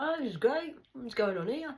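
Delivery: high, loud, thrilled; retold delight. A speaker recalling hearing African music, high and thrilled. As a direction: exclaim it brightly. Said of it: "I'm like".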